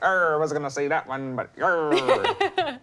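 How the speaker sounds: pirate voice. Pretend. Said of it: "when you do a pirate voice".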